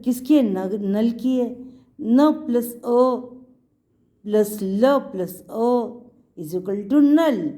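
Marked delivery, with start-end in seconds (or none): 2.0-7.5 very slow, each part of नल spaced apart; teacher building नल for young pupils, slowly; slow spelling out. Shown as a demonstration. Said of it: "न plus अ की स्वर की sound आ रही है".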